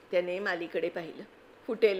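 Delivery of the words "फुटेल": mocking echo. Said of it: "म्हणे".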